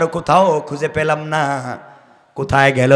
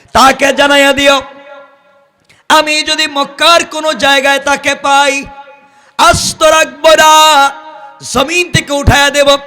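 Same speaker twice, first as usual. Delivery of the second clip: forceful threat with stretched phrase ends; threatening; 5 semitones higher than usual. Retold or imitated. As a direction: deliver a menacing warning in a preacher's raised voice. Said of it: "এইভাবে হুমকি দিয়া".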